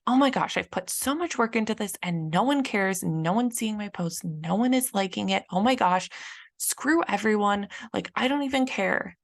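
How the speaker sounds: a hint of a sulking child ranting; kid's tantrum. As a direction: play a frustrated kid throwing a fit, half in jest. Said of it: "feeling like I'm a kid having a tantrum".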